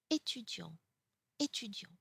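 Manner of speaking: étudiant starting on closed "é"; étudiant said twice, first vowel like a pure "ay"; accent aigu example. Shown as a demonstration. French teacher giving an example of accent aigu, étudiant with closed é. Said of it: "for example".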